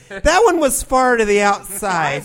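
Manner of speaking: slow, drawn-out mom commentary; lightly voiced mother's remark; mom impression. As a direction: say it like a mom watching baseball. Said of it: "something my mom would say".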